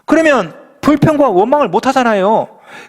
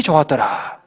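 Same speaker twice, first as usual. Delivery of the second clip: intoned; 9 semitones lower, 4 dB quieter, slower than usual. Acted. Pastor intoning scripture ending.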